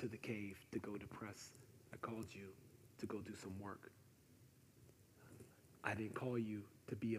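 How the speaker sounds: quiet, soft-spoken divine reproof; gentle voice of God. Acted. God questioning Elijah in the cave, gentle quiet voice. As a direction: speak softly, as God to Elijah. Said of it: "the sound of a gentle whisper".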